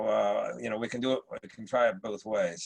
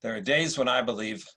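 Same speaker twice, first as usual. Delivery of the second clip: supercilious Marcus Aurelius. Acted. Emperor greets Septimius at court, lightly supercilious. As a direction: play it like a British actor's Roman emperor. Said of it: "a slightly supercilious Marcus Aurelius".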